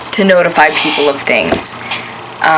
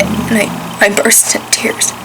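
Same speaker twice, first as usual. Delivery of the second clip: tearful whisper; 3 semitones higher than usual. Real, not acted. Breaking down as dad wheeled out.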